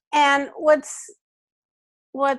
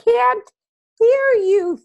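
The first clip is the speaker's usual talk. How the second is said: stern father; 7 semitones higher, 4 dB louder, slower than usual. Acted. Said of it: "And then your father says".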